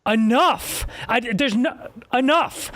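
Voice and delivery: slow, exasperated rebuke; heated pundit debate. Real, not acted. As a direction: drag it out, fed up with him.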